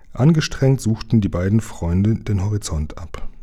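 plain reading voice

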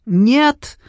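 high sharp Нет!; shriek. A narrator's reading. Sioni shrieking denial at the mage. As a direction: squeal it in horror. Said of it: "взвизгнула Сио".

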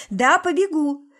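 high, loud defiant yell; defiant shout. A narrator's reading. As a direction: throw it back at him. Son defies father.

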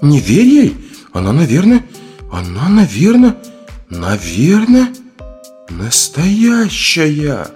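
high, faltering frightened woman; slow right down on the last words, high-pitched; frightened doubt. A narrator's reading. Frightened companion doubts what she sees. (испуганно, высоко и растерянно)

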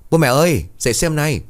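frightened cry, pitched high and loud; loud shout. A narrator's reading. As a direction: yell to wake the whole house. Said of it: "Nó liền hét lớn". (hét lớn, hoảng hốt)

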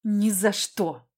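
slow words forced through gritted teeth. Acted. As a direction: grit it out, refusing flatly. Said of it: "я процедила".

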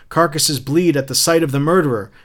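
mild mock scream; retold scream. Captain imitating Montag in the dream, half-hearted scream. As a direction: declaim it in punched beats, not screamed. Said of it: "And you screamed".

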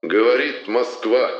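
slow solemn stress on Говорит; Говорит drawn out grandly, Москва falling; Levitan announcer voice. Acted. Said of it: "глубокий торжественный голос Юрия Борисовича Левитана".

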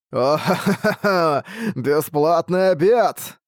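slow, high cackling creature voice; hungry forest monster cackle; mocking monster laugh. A narrator's reading. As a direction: gloat over a free meal, laughing high and slow. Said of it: "послышался голос из сумрачного леса".

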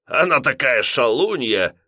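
put-on slow, giggly drunk man; silly tipsy boast. A narrator's reading. Lodger boasting about his lady, lightly giggly. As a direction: savour it foolishly. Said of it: "глупо хихикнул".

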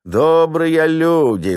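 high, slow, drawn-out plea; husband begging gatekeeper for help; pleading lament. Acted. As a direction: whine for pity at the gate. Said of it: "запричитал мужик".

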